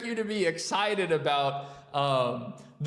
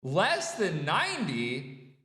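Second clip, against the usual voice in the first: slow rising disbelief on less; incredulous; 3 semitones lower, slower than usual. Real, not acted. Host questioning the referee's ruling, incredulous. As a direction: repeat it as if it can't be true. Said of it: "where did you see him landing?".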